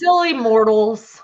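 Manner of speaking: slow, put-on lofty voice; amused deity voice. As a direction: say it like a god amused by humans. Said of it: "he would sit there and go".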